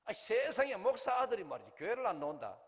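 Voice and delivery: loud, high-pitched indignant outburst, acted out; retold inner fury. Pastor fuming inwardly at a pastor's churchless son, acted-out indignation. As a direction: voice your silent outrage at full volume. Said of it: "내가 속으로 열이 나가지고".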